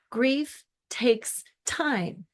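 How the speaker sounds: a soft, unvoiced whisper. Coach to a grieving listener, whispered. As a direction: breathe it like a secret.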